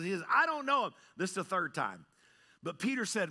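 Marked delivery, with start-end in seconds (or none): 0.3-0.9 high, loud, heated denial; mad. Acted. Peter cursing as he denies Jesus, mad. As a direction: act out an angry disowning. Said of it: "he's so mad".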